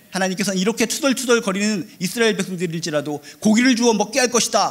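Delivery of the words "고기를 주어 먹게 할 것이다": higher, louder, solemn, grand booming voice. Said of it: "라고 선포하신 것처럼".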